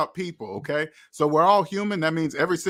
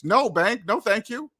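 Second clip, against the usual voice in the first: polite refusal; 5 semitones higher than usual. Retold or imitated. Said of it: "That's what I would say".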